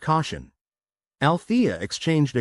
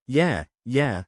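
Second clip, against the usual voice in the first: grumbling. Acted. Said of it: "Althea grumbled".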